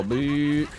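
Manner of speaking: drawn-out electric toothbrush noise; imitated toothbrush buzz. Streamer imitating the electric toothbrushes, buzzing noise. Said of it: "So they go".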